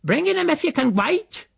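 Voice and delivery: very high, irritated screech; shouting back. A narrator's reading. Housekeeper answers the uncle's demand, shouting back. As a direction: holler a retort from another room. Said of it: "she shouted back".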